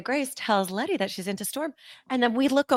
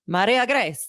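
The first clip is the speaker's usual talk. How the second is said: rolled, dramatic announcer voice; flamenco radio announcer; 4 dB louder than usual. Retold or imitated. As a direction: announce the name with flair. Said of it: "like, a flamenco radio announcer".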